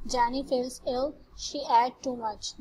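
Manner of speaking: each English word laid out very slowly for the class; slow example reading. Shown as a demonstration. Teacher reading an English example to the class, very slow and careful. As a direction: read it out word by word, like dictation to students.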